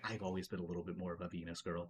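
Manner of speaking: very soft, confiding, leaning-in half-whisper. Voicing a character leaning in to tell a magical girl: half-whispering in character. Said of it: "leans in and whispers".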